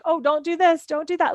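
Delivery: patiently steer five-year-olds on the field; imitating a gentle soccer coach; kind coach. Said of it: "like, in a kind way".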